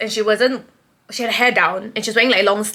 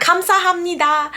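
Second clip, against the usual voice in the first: high, fast thank-you; hurried high-pitched gratitude; blurted thanks; 8 semitones higher, 3 dB louder, much faster than usual. Retold or imitated. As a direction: blurt it out starstruck. Retold blurted thanks to idol.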